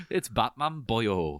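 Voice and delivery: slow, drawn-out Welsh lilt on the last word; mock Welsh accent. Co-host joins in as Welsh gangster, mock Welsh accent. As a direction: put on a leisurely jokey Welsh accent.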